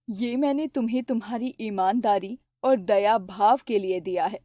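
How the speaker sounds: put-on a kind goddess blessing the honest boy. River goddess speaks to Aman. (धीमी, शांत देवी की आवाज़)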